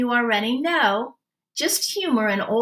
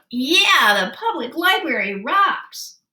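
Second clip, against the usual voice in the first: a higher, louder cheer; excited yell; 5 semitones higher, 3 dB louder than usual. Acted. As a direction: call it out while zipping past. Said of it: "and Hugh yelled".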